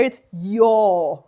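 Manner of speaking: yo said with a long double O sound. Shown as a demonstration. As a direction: stretch the o in yo long. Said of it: "It's like a double O".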